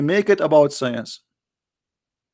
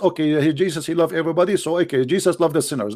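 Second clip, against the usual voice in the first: mocking quote; faster than usual. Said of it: "They just".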